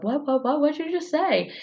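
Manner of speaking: high, stuttered retold challenge; imitated indignant questioning; mock challenge. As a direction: pile on in mock disbelief. Acts out others challenging Jeff.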